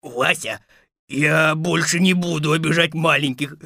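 understated whimpering plea; a touch of crying, begging for mercy; tearful wolf. Acted. Shrunken wolf to Vasya, tearful promise. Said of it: "заплакал волк".

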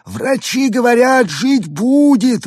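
high, slow comforting alien voice; reassuring alien. A narrator's reading. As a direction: soothe in a drawn-out alien tone. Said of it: "утешил его Артур". (утешающий голос пришельца)

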